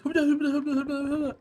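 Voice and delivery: high, mumbled nonsense syllables; grandpa's garbled counting. Retold or imitated. Grandfather counting to ten in Japanese, high imitated garble. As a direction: babble as if confidently counting. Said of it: "no one knew what he said".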